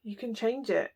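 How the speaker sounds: breathy whispered repeat. Real, not acted. Tarot reader whispering to the viewer. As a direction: whisper it close, like a secret.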